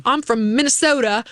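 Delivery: lightly put-on Minnesota accent that comes out weird; badly faked Minnesota accent; a hint of a botched Minnesota accent; attempted Minnesota accent. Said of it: "I tried to do a Minnesota accent".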